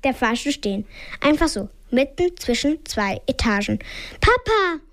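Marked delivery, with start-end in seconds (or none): 4.2-4.8 high call, slightly louder, falling off; a frightened girl calling her father; scared call. A narrator's reading. Mimi calls her father as the lift stops, high scared cry. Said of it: "rufe ich".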